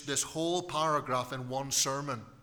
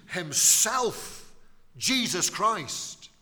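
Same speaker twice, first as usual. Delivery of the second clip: "himself" punched higher and louder, "Jesus Christ" slow and strong; emphatic himself; 5 semitones higher, 6 dB louder, much slower than usual. Shown as a demonstration. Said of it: "to stress and to emphasize he".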